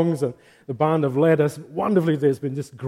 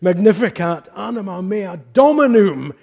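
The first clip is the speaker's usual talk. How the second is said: Latin line sung out higher and louder; voicing Mary; 5 semitones higher, 5 dB louder than usual. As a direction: proclaim it as Mary would. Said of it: "That's why she says".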